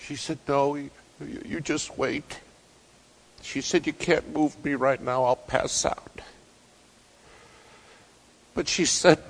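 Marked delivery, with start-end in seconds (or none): 0.5-2.4 high, very soft, halting protest; retold crying. Hurt mother stopping her son, tearful imitation. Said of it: "and she's crying". 3.9-6.2 high, soft tearful voice; retold pained plea. Shaken mother in her son's arms, retold tearful plea. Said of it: "she's still shaking in my arms".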